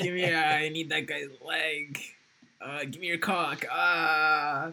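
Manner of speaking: high, loud gleeful raccoon demands; Rocket demanding. Pretend. Rocket Raccoon demanding body parts from the heroes, high and loud. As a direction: bark out greedy demands like a crazed raccoon.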